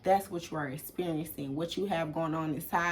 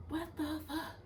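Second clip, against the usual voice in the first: stunned disbelief; 10 semitones higher, 11 dB quieter than usual. Retold or imitated. Her reaction to overheard call.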